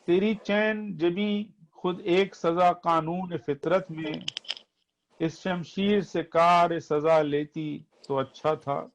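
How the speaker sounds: poetry recitation. Acted. Reciting nazm verses.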